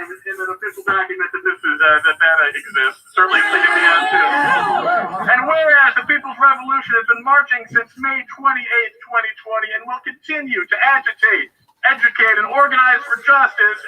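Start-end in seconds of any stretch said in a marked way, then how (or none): 5.3-13.8 formal resolution reading. Acted.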